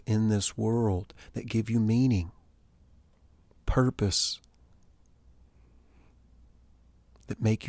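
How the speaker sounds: gentle, calming voice. Acted. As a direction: soothe them like a meditation guide. Soothing guided reassurance.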